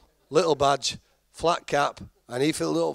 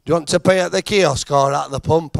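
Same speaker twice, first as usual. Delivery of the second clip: tannoy voice; 6 dB louder than usual. Retold or imitated. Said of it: "This voice come off at Tannoy".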